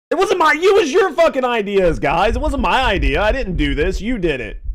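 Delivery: high, pushy blame; blaming protest. Real, not acted. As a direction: shove the blame onto them. Blaming friends before the dare.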